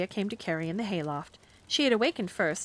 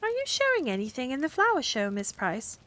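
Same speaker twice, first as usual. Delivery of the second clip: careless; 6 semitones higher than usual. Acted. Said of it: "she said carelessly".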